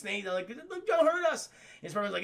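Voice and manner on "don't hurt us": high, frightened plea; mock pleading. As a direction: beg in a raised, panicky voice. Crooks beg the police.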